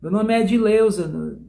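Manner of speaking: mock denial. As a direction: protest with a grin, listing made-up names. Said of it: "E você".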